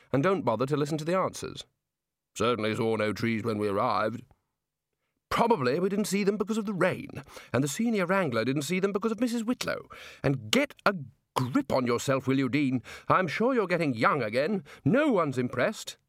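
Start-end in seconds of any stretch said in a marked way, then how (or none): 2.4-4.2 put-on old wizard voice. A wizard speaks. 5.3-16.0 blustering Arch-Chancellor. Acted.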